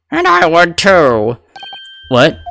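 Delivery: put-on very old man. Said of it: "the old man voice".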